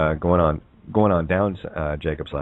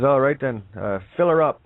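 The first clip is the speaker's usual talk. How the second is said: Newfie voice; 6 semitones higher, 3 dB louder than usual. Acted. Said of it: "He says".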